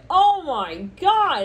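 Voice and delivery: high, slow, drawn-out "Oh my God"; mock shock. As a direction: stretch it out in disbelief. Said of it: "you hear of this and you're like".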